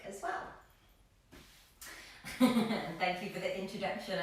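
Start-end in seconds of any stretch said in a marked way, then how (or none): 1.8-2.3 quiet little chuckle; small hushed giggle; soft laugh. Real, not acted. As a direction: laugh softly under the breath. Amused before thanking introducer.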